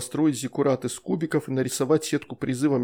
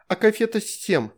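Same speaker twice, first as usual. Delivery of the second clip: put-on high, childish question; curious little girl; 7 semitones higher than usual. A narrator's reading. Veronika asking the shadow about candy, high and childlike. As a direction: ask like a small girl tempted by sweets.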